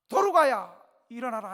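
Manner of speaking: loud, ringing command to rise; a preacher voicing the apostle's loud command; commanding call. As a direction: call her up from death with authority. Peter raises the dead woman.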